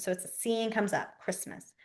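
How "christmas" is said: near-voiceless whisper; whispered demo. Shown as a demonstration. Teacher demonstrating the Christmas sign, whispered. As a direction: mouth the word barely aloud. Signing demo, word softly mouthed.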